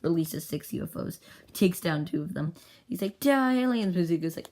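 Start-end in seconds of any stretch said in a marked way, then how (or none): 3.2-3.9 loud, raised battle shout; battle cry. Acted. Pilot attacking the aliens, loud battle cry. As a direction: yell it at the enemy.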